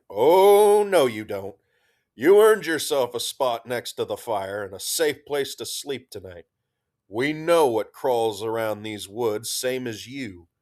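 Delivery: loud, firm refusal; insist, leave no room to argue; emphatic. Acted. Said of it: "Gunny said emphatically".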